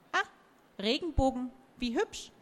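put-on high, delighted old tree; delighted talking tree. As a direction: coo it like a charmed oak. Oak voice in a story.

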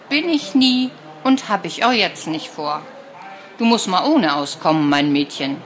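put-on a touch of a dry old grandma setting her straight; gruff grandma. Grandma voiced by narrator.

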